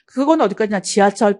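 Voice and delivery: ordinary delivery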